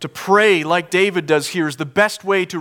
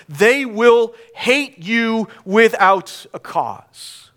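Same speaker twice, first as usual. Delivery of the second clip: raised, higher preacher's voice; forceful preaching; 7 semitones higher, 5 dB louder than usual. Real, not acted. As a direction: preach it with rising indignation.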